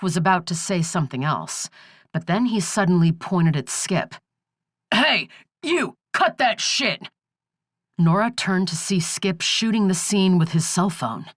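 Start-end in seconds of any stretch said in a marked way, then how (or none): 4.9-7.1 shouting. A narrator's reading. Sheriff yells at filming Skip.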